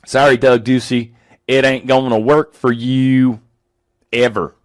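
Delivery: lightly put-on Southern twang; Southern accent. Host tells Doug Ducey off, in a light Southern accent. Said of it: "I don't know why I'm going Southern".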